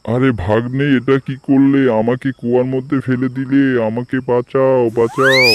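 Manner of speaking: high, wailing cries from the bottom of a well; trapped tiger wailing for help. Acted. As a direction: howl in panic for rescue. Tiger begs fox for rescue.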